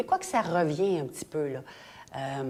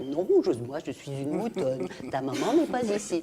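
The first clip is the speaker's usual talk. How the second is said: lightly voiced cartoon mother sheep; a hint of a sheep character, pitch jumping up. Mother sheep turning away lost Zigzag, lightly put-on sheep voice. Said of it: "je faisais les voix de toute la maman mouton".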